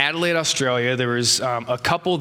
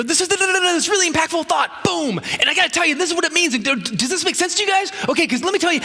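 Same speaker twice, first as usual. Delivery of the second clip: rushed preacher; 14 semitones higher, faster than usual. Retold or imitated. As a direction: rattle it off like a preacher who can't stop. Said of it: "You go".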